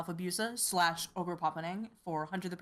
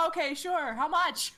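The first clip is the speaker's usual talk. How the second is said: imitated startled compliance; 9 semitones higher, 4 dB louder, slower than usual. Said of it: "She was kinda like".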